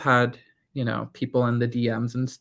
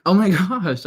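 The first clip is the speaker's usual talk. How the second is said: excited; 7 semitones higher, 7 dB louder than usual. Real, not acted. Reacting to a viewer.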